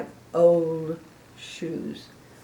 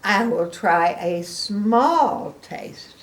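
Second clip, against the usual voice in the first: slow, careful bargain; cautious elephant; 4 dB louder, much slower than usual. Acted. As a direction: stretch out "small". Gerald hedging.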